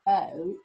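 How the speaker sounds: OAT stretched loudly, long oa then separate t; sounded out. Shown as a demonstration. Children listening for O in coat, OAT sounded out. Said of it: "Can you hear the O sound".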